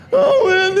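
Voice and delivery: very high, loud whine; hammed-up moan of a complainer; mock complaining. People who complain so readily, mock whining. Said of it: "if complaining isn't a spiritual gift".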